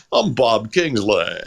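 slow, lightly imitated radio host voice; a hint of a famous radio announcer; Bob Kingsley. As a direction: stretch it out like a countdown announcer. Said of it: "how Bob Kingsley talks in real life".

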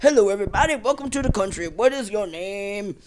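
hammed-up French immigration officer; mock French accent, slowing into the question. Ellis Island guy greeting newcomers, hammed-up French accent. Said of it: "Is this your French accent".

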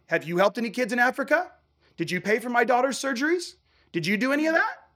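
escalating pointed questions; building challenge. Retold or imitated. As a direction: press him harder with each question. Confronting the banker in a retold scene.

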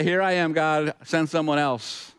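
lightly acted passing of the buck; half-hearted offer, slowing as it backs out; mock reluctant volunteer. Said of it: "he has some options right now".

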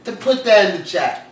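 loud, deliberate oration with long pauses; emphatic, performed outrage; indignant declaration. Acted. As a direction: project each phrase like a formal rebuttal. Indignantly reciting his rebuttal message.

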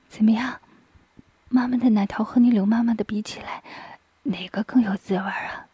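half-whispered mother's part; a hint of a murmuring mother, partly whispered; lightly voiced mother. Mother speaks to her son, half-whispered.

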